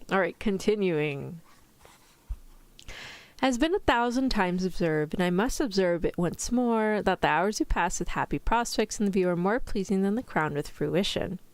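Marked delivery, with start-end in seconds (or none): 3.4-11.4 story narration. A narrator's reading. Reads a novel aloud.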